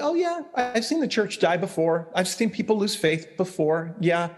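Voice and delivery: put-on God as a wise old storyteller; a hint of a Jewish accent, chatty and knowing. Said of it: "probably in a, a good Jewish accent".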